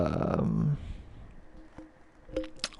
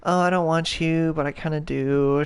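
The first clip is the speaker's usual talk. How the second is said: mock coy girl; 3 semitones higher than usual. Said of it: "playing that little game".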